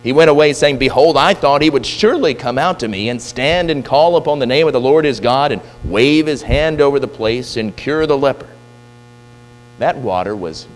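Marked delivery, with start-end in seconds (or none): 0.8-8.5 a touch of raised, indignant complaint; mild indignation. Retold or imitated. Naaman griping about Elisha, mildly indignant. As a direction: sound let down and a bit offended. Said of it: "he was angry".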